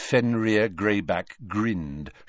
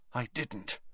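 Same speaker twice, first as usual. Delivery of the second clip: much softer breathy denial; breathed; 2 semitones higher, 12 dB quieter than usual. A narrator's reading. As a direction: barely breathe the words. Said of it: "breathed Malfoy".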